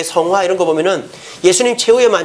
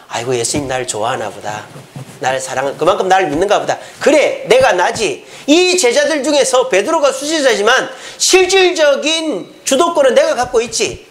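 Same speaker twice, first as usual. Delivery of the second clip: smug, self-satisfied, swelling higher; proud inner thought; 4 semitones higher than usual. Acted. Judas smugly thinking he is favoured, growing proud and higher. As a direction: puff up with pride, slowing at the boast. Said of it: "교만의 소지가 되는 거예요".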